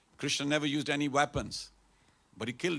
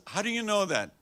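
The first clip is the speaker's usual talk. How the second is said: amazed rishi; 9 semitones higher, 5 dB louder than usual. Acted. Rishi amazed, asking the lady.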